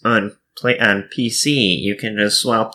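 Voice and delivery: know-it-all nerd voice; a hint of a nerdy know-it-all. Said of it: "I'm gonna do my nerd voice".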